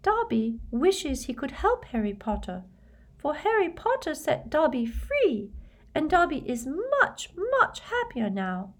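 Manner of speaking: high, earnest house-elf voice; solemn little high-pitched elf; very serious elf. A narrator's reading. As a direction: squeak it with great seriousness. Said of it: "he said very seriously".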